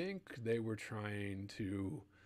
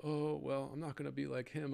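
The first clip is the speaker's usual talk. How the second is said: mock-haughty rival, a bit higher; dismissive rival; 5 semitones higher than usual. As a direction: sniff at him like a smug rival. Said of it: "was kind of".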